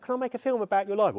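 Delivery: high, loud South London student voice; South London accent. Retold or imitated. Film student asks to make a documentary, high, loud South London accent. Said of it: "I had a South London accent at the time".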